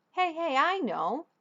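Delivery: light excited dad voice. A narrator's reading. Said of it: "said Dad excitedly".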